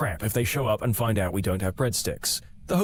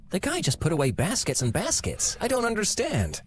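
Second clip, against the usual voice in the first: baffled manager; 6 semitones higher than usual. Pretend. Imagined baffled Olive Garden manager.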